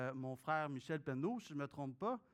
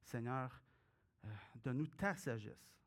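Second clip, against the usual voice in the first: prayer; 2 semitones lower than usual. Acted. Pastor prays aloud before reading.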